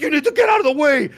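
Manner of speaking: high, loud order to move; imitating urgent staff. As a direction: bark it like a rushed medic. Staff shoving him aside.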